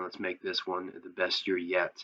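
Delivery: ordinary talk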